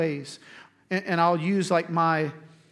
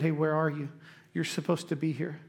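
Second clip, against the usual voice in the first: softer, gentle invitation; inviting; 2 semitones lower, 5 dB quieter than usual. Acted. God inviting hiding Adam to come back, gentle. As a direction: ask easily, welcoming them back, trailing softer. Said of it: "it was an invitation".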